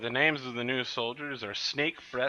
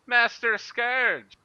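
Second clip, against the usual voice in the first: high, loud cackling pirate first mate; pirate Plug voice; 6 semitones higher, 7 dB louder than usual. Acted. Mister Plug asks Master Scourge for a crew in a high pirate voice. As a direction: squeal it out like a greedy pirate mate. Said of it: "Mister Plug turns to Master Scourge and says".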